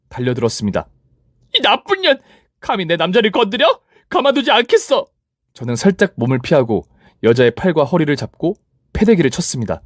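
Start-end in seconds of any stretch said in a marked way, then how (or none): 1.6-5.1 much higher furious screech. Acted. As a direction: lunge at her screaming. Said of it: "화가 심하게 났는지". (훨씬 높게 악을 쓰는 전 여친)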